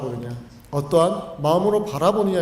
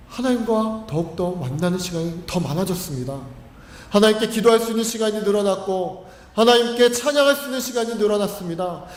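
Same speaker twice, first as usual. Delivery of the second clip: higher, earnest prayer of thanks; retold grateful prayer to God, raised and fervent; thankful prayer; 5 semitones higher than usual. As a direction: pray it with building gratitude. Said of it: "감사의 조건이 됐다는 겁니다".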